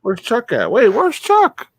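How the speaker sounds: high, loud panicked call; yelling across the room. Real, not acted. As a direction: call out frantically for Chuck. Searching frantically for figure.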